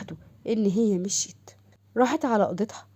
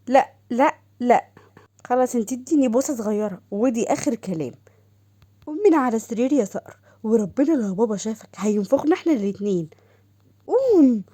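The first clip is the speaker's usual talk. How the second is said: put-on alarmed girl. Doha voiced.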